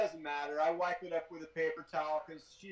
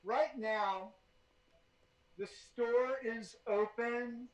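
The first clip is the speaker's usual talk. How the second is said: muffled behind a cloth mask; through a face mask; 3 semitones higher, slower than usual. Real, not acted. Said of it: "Can you hear me okay through the mask?".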